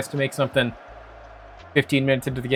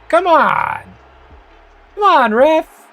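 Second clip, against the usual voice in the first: high, loud furious protest; yelling from the sidelines; 6 dB louder, much slower than usual. Real, not acted. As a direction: scream it at the referee. Yelling at the referee.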